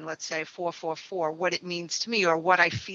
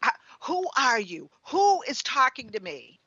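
startled; 5 semitones higher than usual. Retold or imitated. Startled question to the unseen sender.

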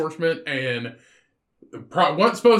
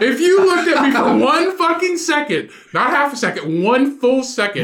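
higher, indignant mock outburst; mock indignation; 6 semitones higher than usual. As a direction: stretch out the key words, affronted. Mock outrage at mistaken identity.

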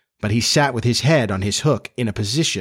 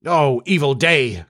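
slow, pitched-up lament; drawn-out cry of woe; 4 semitones higher, slower than usual. A narrator's reading. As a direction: wail it mildly like a doomed pirate. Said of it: "cried Starkey".

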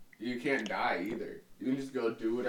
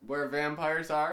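said a little louder on request; 4 semitones higher, 4 dB louder than usual. Shown as a demonstration. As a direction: speak up for the mic. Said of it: "Say it a little louder".

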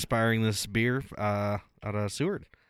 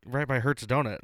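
excited friend; 4 semitones higher, 4 dB louder than usual. Retold or imitated. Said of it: "She goes".

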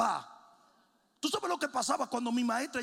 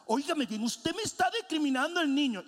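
a higher, indignant mother scolding the teacher; 6 semitones higher than usual. Retold or imitated. Mother at school accuses teacher of discriminating, indignant. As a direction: push up in mock outrage.

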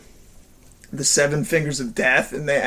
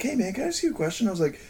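much softer, ending in a whisper; hushed question; 3 semitones higher, 6 dB quieter than usual. Retold or imitated. Asking the supervisor about the old lady, whispered. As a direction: ask it under your breath.

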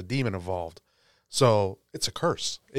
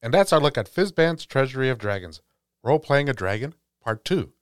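announcer sign-off; 4 semitones higher, 5 dB louder than usual. Acted. Formal episode sign-off.

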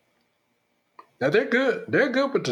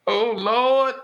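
very high, startled squeals then a slow plea to the Lord; hammed-up pious shock; shocked grandmother; 9 semitones higher, 4 dB louder than usual. Grandmother hearing Junior is Republican, squealing in hammed-up shock. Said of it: "she's like".

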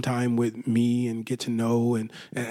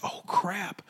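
sudden realization; 7 semitones higher, 3 dB quieter than usual. Retold or imitated. Noticing logo on own shirt.

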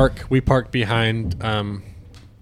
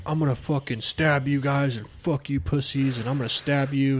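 retold threat; 7 dB quieter than usual. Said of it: "and he's like".

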